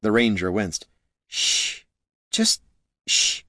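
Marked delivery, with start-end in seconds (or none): 1.3-3.4 drawn-out unvoiced shushing; hushing. A narrator's reading. Wincing hungover ranger shushing the noisy dwarf, hushed. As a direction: shush him through a hungover wince.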